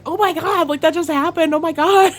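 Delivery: high, laughing oh my God; giddy excitement. Retold or imitated. Turning to Big Snacks after the hug, giddy and laughing. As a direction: gush with a laugh breaking through.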